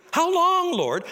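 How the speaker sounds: high, loud pleading cry; anguished cry. Acted. Isaiah crying out to God in loud anguish. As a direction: cry it up to heaven in despair.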